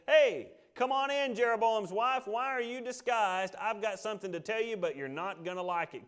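calling out. Retold or imitated. Blind prophet hails the king's disguised wife at the door, calling out. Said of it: "cries out and says".

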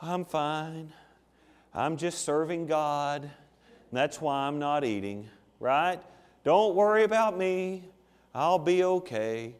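soft, slow martyr voice; bravely suffering for sympathy; pitiful Pharisee. Acted. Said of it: "He'd say".

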